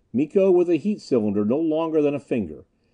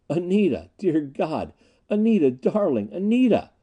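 high, rising cries of her name; overwhelmed recognition; 6 semitones higher than usual. A narrator's reading. Gregg realizes Anita is alive, overwhelmed. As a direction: exclaim in amazed, loving disbelief.

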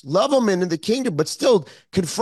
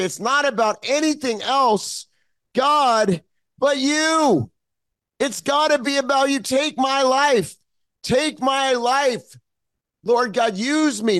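higher, drawn-out heartfelt plea; emotional prayer; 6 semitones higher, slower than usual. Real, not acted. Preacher crying out to God to use him, emotional pleading. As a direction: plead with God, choking up a little. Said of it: "I'm getting a little emotional here".

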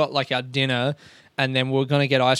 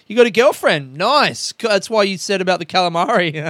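teasing excitement; 4 semitones higher, 5 dB louder than usual. Retold or imitated. Friend teasing, acted quote.

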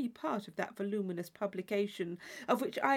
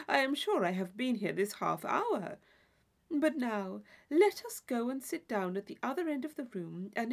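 lightly voiced gushing friend; a touch of breathless gossip; Isabella, chattering; 3 semitones higher than usual. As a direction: babble on, eager to share everything. Isabella chatters about hat, book.

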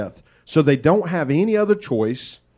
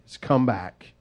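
country saying; 2 semitones lower than usual. Shown as a demonstration. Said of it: "as we would say in the country".

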